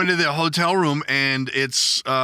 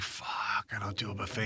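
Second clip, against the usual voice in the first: low, much softer grumbled aside; muttered curse; 5 semitones lower, 14 dB quieter than usual. Retold or imitated. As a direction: mutter it under your breath, fed up. Grumbling about buffet-only dinner.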